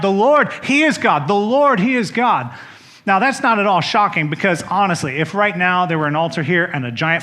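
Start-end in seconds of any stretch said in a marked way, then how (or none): 0.0-2.5 mild cry out. Retold or imitated. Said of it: "fell prostrate and cried".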